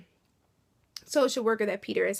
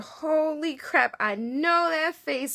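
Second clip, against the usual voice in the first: surprised recognition; 5 semitones higher, slower than usual. Real, not acted. Recognizing an actor.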